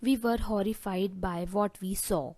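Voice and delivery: very slow and deliberate, word by word; slow dictation. Shown as a demonstration. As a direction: dictate the phrase slowly to the class. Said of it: "जिसे आप English में बोलेंगे".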